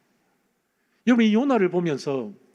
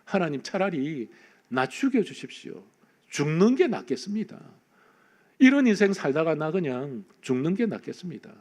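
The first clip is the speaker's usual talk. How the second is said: despairing confession; 2 semitones lower than usual. Retold or imitated. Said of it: "이렇게 고백합니다".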